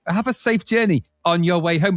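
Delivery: sing-song robot announcement; robotic machine voice. Retold or imitated. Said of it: "in this kind of deaf robotic voice".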